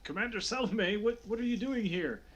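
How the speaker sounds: high, stammering surprise; surprised guard. Acted. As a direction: act a guard caught off guard by a superior. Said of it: "he turns surprised to Salome".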